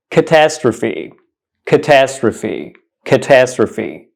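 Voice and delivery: slow, careful "catastrophe"; "catastrophe" drawn out, ending in a clear "fee"; pronunciation demo. Shown as a demonstration. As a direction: say "catastrophe" slowly, stressed on the second syllable. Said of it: "This word is actually pronounced".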